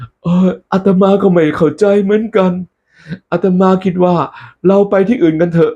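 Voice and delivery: high, slowish puzzled monk voice. Acted. Monk telling messenger let's go, high. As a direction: shrug it off in a high voice.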